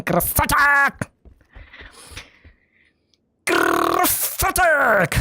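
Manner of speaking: slow, stretched cheer; drawn-out praise. Acted. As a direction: stretch the word out slowly.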